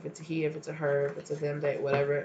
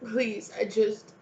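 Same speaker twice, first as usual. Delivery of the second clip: begging; 4 semitones higher than usual. Acted. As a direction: beg them not to walk away. Voicing someone begging them not to leave.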